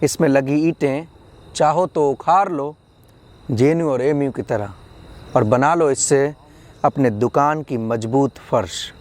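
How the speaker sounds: measured poetry reading, phrase by phrase; poem recitation. Acted. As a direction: lift the opening of each thought, then settle. Recites second poem on education.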